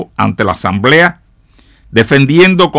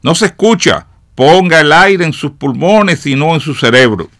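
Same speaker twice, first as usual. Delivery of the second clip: higher-pitched complaint from the crowd; exclaimed heckle; 6 semitones higher, 3 dB louder than usual. A narrator's reading. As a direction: heckle the speaker with raised pitch. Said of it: "exclamó otro".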